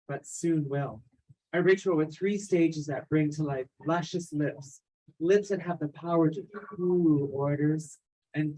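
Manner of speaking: measured spoken-word delivery, phrase by phrase; poised theatrical recital with deliberate pauses; dramatic monologue reading. Acted. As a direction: read it as a stage monologue, savouring each item. Resumes performing her written monologue.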